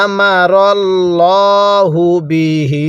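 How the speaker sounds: slow recitation, বিহি with a long drawn হি; Quranic recitation. Shown as a demonstration. Teacher demonstrating elongation, slow recitation. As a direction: stretch মা and হি slowly. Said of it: "হায়ে জমিরের মধ্যে তিন আলিফ টান দিব".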